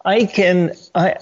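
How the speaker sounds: halting, with false starts and restarts; stuttering over thoughts. Real, not acted. Senator losing his thread mid-argument on air, stuttering. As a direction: stumble along, groping for the thought. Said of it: "I'm stuttering with my thoughts".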